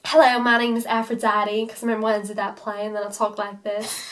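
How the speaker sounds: attempted Southern stage accent; imperfect, deliberate Southern twang. Shown as a demonstration. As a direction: put on a Southern belle accent for a demo. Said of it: "I need to talk in a southern accent".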